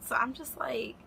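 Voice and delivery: soft whispered aside. Real, not acted. Vlogger confiding to viewers, whisper. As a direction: breathe it as a whisper.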